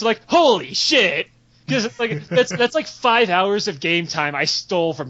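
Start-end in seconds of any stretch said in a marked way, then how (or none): 0.3-1.3 slow amazed "holy shit". Retold or imitated. Merchant amazed at his earnings, drawn-out awe. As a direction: stretch "Holy shit" out slowly, a bit higher and louder.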